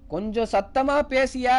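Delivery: loud, high, drawn-out demand. Retold or imitated. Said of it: "இதுக்கு மேல எப்படியா சத்தமா பேசுறது".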